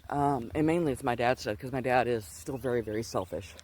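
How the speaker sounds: winded, breathing hard. Real, not acted. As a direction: talk while out of breath. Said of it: "sorry, I'm a little bit winded".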